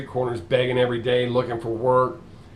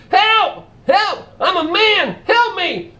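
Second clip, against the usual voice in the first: high, loud panicked yells; screaming for help; 5 dB louder, much slower than usual. Acted. Man in gorilla suit begging the crowd, terrified yelling. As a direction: drop the act and scream for your life.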